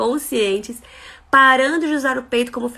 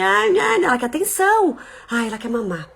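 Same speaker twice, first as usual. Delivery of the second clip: mock sighing mother; 5 semitones higher than usual. Mocking the distracted mother.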